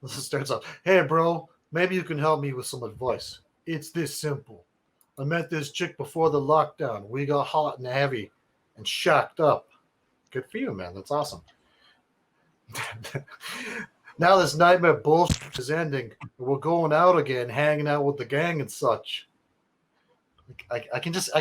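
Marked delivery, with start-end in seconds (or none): 0.8-9.7 a hint of New York bro reading; New York accent. Reading Nick's email in a mild New York accent. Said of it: "wanna do a New York accent". 14.2-19.3 a hint of New York bro reading; New York accent. Reading Nick's email in a mild New York accent. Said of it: "wanna do a New York accent".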